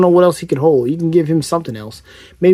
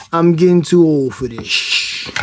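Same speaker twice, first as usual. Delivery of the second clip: lightly voiced world-weary movie cop; slow, drawn-out catchphrase impression; Lieutenant Murtaugh; slower than usual. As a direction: imitate a cop who's too old for this. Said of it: "He is Lieutenant Murtaugh from".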